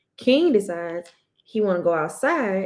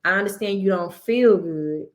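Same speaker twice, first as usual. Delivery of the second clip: calm and understanding. Retold or imitated. Mother calmly soothes her sick son, gentle and understanding. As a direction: talk him down kindly instead of yelling. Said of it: "taking a step back and being like".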